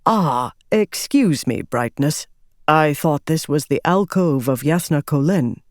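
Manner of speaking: lightly voiced cultured scholar; cultured young ardent. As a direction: speak with polished courtesy. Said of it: "his voice had a cultured tone".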